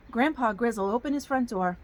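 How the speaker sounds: put-on storybook narration in a folksy Southern accent; hammy Southern storytelling accent. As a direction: read it like a Southern yarn for children. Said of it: "I get a Southern accent".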